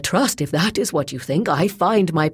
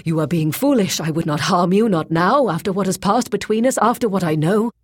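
raised, loud, insistent pleading; urgent persuasion; 6 semitones higher, 5 dB louder than usual. A narrator's reading. Bound Boyce persuading Grey Alis to untie him, urgent pleading. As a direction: press her earnestly to trust you.

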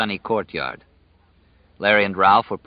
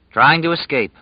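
mocking echo; 6 semitones higher, 5 dB louder than usual. A narrator's reading. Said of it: "Larry said".

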